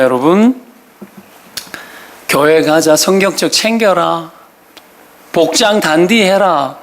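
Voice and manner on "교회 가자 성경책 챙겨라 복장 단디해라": slow mock list of orders; nagging. Parent getting family ready for church, drawn-out mild nagging. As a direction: stretch each reminder like routine nagging. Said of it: "잔소리 바가지".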